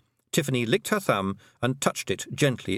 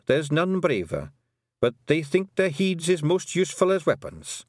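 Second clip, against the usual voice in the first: put-on high, Scots-accented old Pictsie matriarch; a tiny Scottish clan mother, proud and fond; old Kelder voice; 7 semitones higher than usual. The Kelder telling Tiffany about her sons, high and Scottish.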